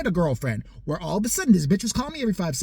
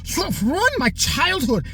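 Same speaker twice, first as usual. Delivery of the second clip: higher, slow whiny put-on voice; mock Greta; 9 semitones higher, 4 dB louder, much slower than usual. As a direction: drag it out like a sulky teen activist. Mocking Greta Thunberg.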